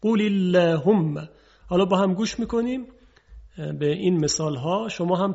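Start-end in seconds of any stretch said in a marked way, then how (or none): 0.0-1.3 قل اللهم slow and louder, with a light, thin lam. Shown as a demonstration. Teacher showing the correct thin lam in اللهم. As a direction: recite قل اللهم with a delicate lam. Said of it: "خلاف فصاحته".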